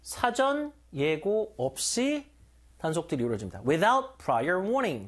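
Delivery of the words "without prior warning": Without prior warning, said very slowly word by word; slow demo. Shown as a demonstration. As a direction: spell it out slowly for learners. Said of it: "들어보세요".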